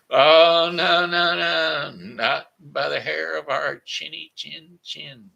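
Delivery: high, loud little pig voice refusing; squeaky little pig. Acted. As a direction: cry out no as a frightened little pig. Pigs refuse the wolf.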